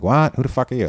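sharp high snap of irritation; mock a cranky director brushing him off; cranky retort. Retold director snapping at a stranger, cranky.

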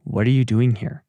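a mild stern, disappointed God asking. Pretend. God asking Elijah, lightly stern and disappointed. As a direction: let the question land as a letdown. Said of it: "read that with that tone of voice".

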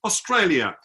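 slow, drawn-out emotional plea; imitating emotional soldier. Tipsy soldier pleads with tourist for unity, imitated emotion. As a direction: plead earnestly, stretching the final words. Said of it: "he got quite emotional".

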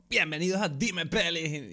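slow imitation of his host voice; podcast intro voice. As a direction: mimic your own show opening, slowly. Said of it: "yo tengo una voz así cuando empiezo".

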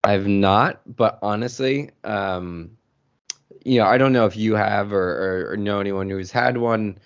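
groggy, just-woke-up voice. Real, not acted. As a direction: talk through morning grogginess. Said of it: "excuse my groggy voice".

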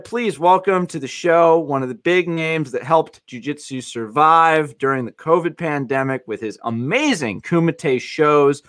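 lively, rising podcast announcer; show-host introduction. Acted. Host welcomes a returning guest to the podcast, announcer style. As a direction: build up to the guest's name, drawn out.

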